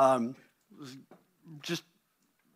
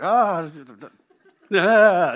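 panicked cry; 5 semitones higher, 14 dB louder than usual. Retold or imitated. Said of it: "terrified of her".

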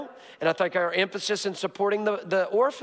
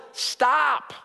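shouted command; 6 semitones higher than usual. Acted. Pastor commanding the congregation to stop, shouted. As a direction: shout it like a warning.

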